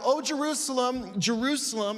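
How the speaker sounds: a touch of anguish on "Oh, Jerusalem"; voicing Jesus lamenting over the city. Pastor voicing Jesus crying out over Jerusalem, mild lament. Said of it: "And he cries out".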